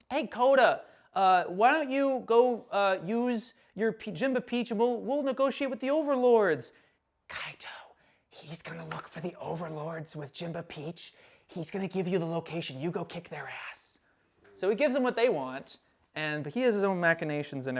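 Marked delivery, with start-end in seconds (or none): 0.1-6.7 coaxing. Retold or imitated. Michi coaxing Kota with a scheme. 7.3-14.0 whispered, hushed instructions; very soft scheming undertone; conspiratorial aside. Retold or imitated. Michi's secret aside to Kaito.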